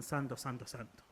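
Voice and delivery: softly, dropping to near silence; hushed awe. Retold or imitated. Preacher quoting the seraphim's song, hushed and reverent. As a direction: breathe the holy words in reverence.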